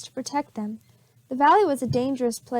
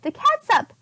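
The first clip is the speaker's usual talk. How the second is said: higher, louder startled oh oh; sudden realisation; 11 semitones higher, 4 dB louder than usual. Acted. Amelia realizing she forgot the catsup, startled. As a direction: catch a mistake out loud.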